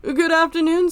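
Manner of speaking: high, eager hotel bellboy; bow and greet like a proper bellhop; chirpy old-fashioned bellhop. Acted. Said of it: "I am the bellboy".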